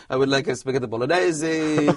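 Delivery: put-on light Italian accent ordering food. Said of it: "a little bit of an Italian twang".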